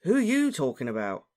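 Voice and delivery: mildly indignant question; puzzled. A narrator's reading. Ron questions Harry at cross purposes, puzzled. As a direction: ask back, confused.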